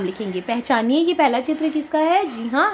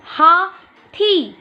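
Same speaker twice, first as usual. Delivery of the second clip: very slow, higher teacher model; slow spoken model; 5 semitones higher, 3 dB louder, much slower than usual. Shown as a demonstration. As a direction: sound out each syllable slowly. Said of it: "उसे बोल के देखेंगे". (धीरे और ऊँचे स्वर में शब्द बोलना)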